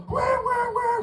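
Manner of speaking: high mock wah-wah gibberish; Charlie Brown teacher. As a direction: squawk wah wah like the muffled teacher. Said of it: "like the teacher in Charlie Brown".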